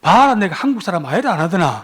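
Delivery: punchline in Gyeongsang dialect; Gyeongsang accent. Retold or imitated. Man returns to tell his friends, joking Gyeongsang accent. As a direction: report back in imitated Busan dialect. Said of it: "친구들한테 돌아와서 하는 말이".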